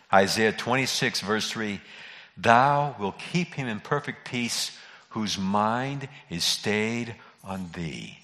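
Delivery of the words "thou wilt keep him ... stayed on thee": slow, reverent reading; scripture reading. Acted. Reads scripture slowly.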